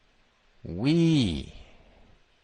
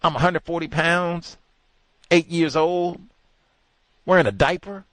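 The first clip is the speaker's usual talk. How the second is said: mock boy voice; 7 semitones higher, 3 dB louder than usual. Mocking the boy's situation.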